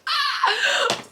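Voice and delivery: high squeal of excitement; excited scream. Real, not acted. Vlogger starts opening her parcel, excited scream. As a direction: shriek at the first peek.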